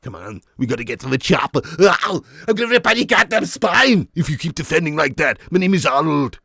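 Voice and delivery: lightly voiced action-hero growl; a hint of the Terminator barking orders; mild mock Schwarzenegger threat; Arnold Schwarzenegger impression. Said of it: "Schwarzenegger as prevent-, presenter".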